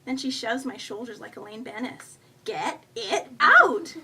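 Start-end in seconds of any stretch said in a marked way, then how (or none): 2.4-4.0 loud word-by-word raccoon order; insistent demand. A narrator's reading. Raccoon shoves woman's shoulders to make her confess, insistent. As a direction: drag out each word, building to a shout.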